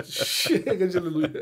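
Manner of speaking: slow, laughing exasperation; amused, drawn out with laughs. Real, not acted. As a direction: say it through real laughter. Joking while laughing at the story.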